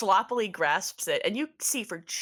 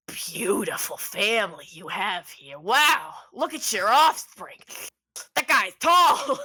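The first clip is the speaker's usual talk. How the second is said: goopy frog creature; 5 dB louder than usual. Acted. Goopy frog marvels at his friend's family, loud and swooping. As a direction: gush like an overexcited frog creature. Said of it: "Goopy Teeth Frog goes".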